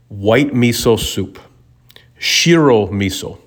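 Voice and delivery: put-on a light Japanese accent on White miso soup, shiro miso, slow; mild Japanese accent imitating Billy, unhurried; Billy's miso tip in a light Japanese accent; slight Japanese accent. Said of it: "I'm doing, like, a little accent".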